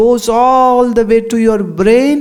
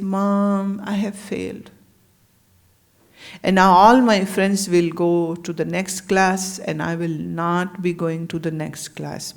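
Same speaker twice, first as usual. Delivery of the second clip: put-on a boy's voice, much softer and sad; mild sad child; 3 semitones lower, 5 dB quieter than usual. A failing boy tells his mother, quiet and sad. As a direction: tell Mom softly, like a boy who failed. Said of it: "he was very sad".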